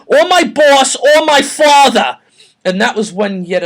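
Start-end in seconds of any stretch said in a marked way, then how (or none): 0.0-0.9 loud high yell leaning on "my"; hammed-up shout stressing "my"; mock angry shout. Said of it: "little Chris replied". 0.9-2.2 slow, loud high yell hitting "or"; hammed-up shouted finish stressing "or"; mock angry shout. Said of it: "little Chris replied".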